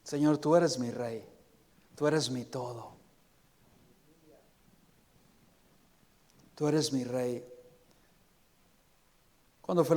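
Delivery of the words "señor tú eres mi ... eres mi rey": from the heart. Shown as a demonstration. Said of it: "de corazón".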